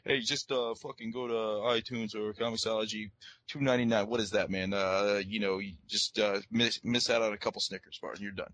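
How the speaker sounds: a loose, lightly voiced Jersey guy plugging a comic; tossed-off Kevin Smith bit, barely an accent; hint of a Jersey podcaster hyping a deal; bad Kevin Smith impression. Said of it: "that was a horrible Kevin Smith".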